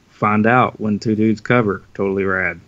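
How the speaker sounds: light announcer tease; commercial voice. Pretend. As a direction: read it like a promo. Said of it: "I kinda did that in my commercial voice".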